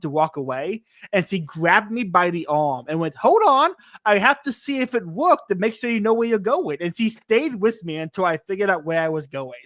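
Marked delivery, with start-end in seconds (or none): 3.2-6.8 high, louder grandma, lightly imitated; a caring old lady stopping you, pitched up; insistent grandma. Grandma grabbing the traveler's arm, high insistent voice. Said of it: "this grandma".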